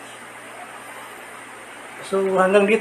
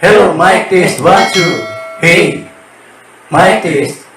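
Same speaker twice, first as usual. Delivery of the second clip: robotic transformer effect on the mic; 8 dB louder than usual. Shown as a demonstration. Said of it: "Para akong si Kuan Kasiloy. Transformer".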